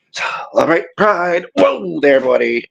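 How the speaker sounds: out of breath, panting; catching breath between words; gasping between phrases. Real, not acted. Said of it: "I'm out of breath".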